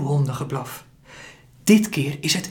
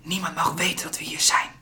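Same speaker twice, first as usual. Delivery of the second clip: whispering; 3 semitones higher, 6 dB quieter than usual. Acted. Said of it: "fluistert ze".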